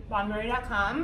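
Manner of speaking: talking through a mouthful of burger; mouth full. Real, not acted. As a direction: say it around a bite of food. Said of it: "as her mouth is full".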